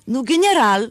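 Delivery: put-on loud, impatient Russian-accented Hebrew. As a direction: snap גנרל with a rolled Russian r. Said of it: "משוכנעת שאין לה מבטא רוסי".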